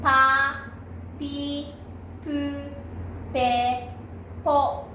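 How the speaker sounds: パ, ピ, プ, ペ, ポ, each said alone with a pause; repeat-after-me drill. Shown as a demonstration. Teacher asking everyone to join in, separated パ to ポ syllables. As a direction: lead a choral drill from パ to ポ. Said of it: "皆さんも言いましょ".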